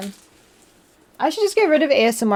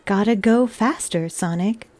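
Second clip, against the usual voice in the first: flat, mechanical robot voice; 2 semitones lower than usual. Pretend. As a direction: speak like a monotone machine. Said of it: "I'm using my robot voice".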